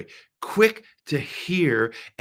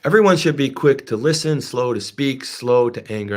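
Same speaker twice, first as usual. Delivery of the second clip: the verse proclaimed louder, strong on everyone; emphatic scripture; 6 dB louder than usual. Acted. Preacher proclaiming the verse again to the congregation, emphatic. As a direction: declare the verse with force.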